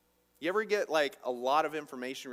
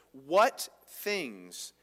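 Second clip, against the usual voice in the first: gentle question; 5 dB louder than usual. Retold or imitated. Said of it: "this is Jesus".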